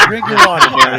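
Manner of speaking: loud teasing command, voice pushed up high; mock scolding order. Real, not acted. Host teasingly orders the guest to drink his water, loud and high. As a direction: boss him into drinking, half laughing.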